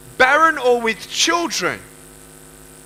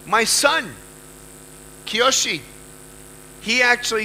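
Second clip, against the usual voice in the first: ordinary talk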